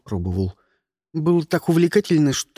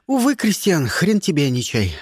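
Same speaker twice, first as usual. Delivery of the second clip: ordinary delivery, nothing marked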